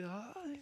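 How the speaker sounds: soft, high drawn-out "ay"; a quiet, high mock exclamation; imagined "ay". Apostles in the boat watching Peter, a soft high "ay". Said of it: "Yo me los imagino así".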